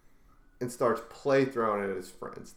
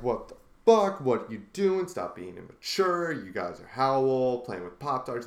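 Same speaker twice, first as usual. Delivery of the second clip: angry. Retold or imitated. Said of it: "He's like".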